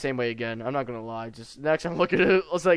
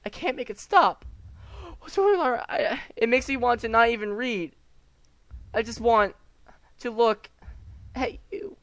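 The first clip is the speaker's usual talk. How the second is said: frantic Yuri; 9 semitones higher than usual. Acted. Gamer voicing Yuri's confession to the player, rising frantic. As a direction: voice Yuri spiralling out of control, climbing in pitch.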